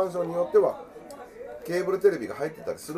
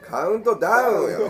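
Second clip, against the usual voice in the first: anime girl impression; 7 semitones higher, 6 dB louder than usual. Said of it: "似てるな".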